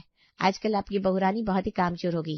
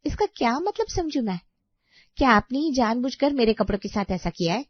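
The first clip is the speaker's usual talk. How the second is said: louder, affronted questioning; indignant accusation; 5 dB louder than usual. Acted. Sister-in-law suspects sabotage of her clothes, indignant accusation. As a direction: confront her as if it was deliberate. Accuses bhabhi of deliberate damage.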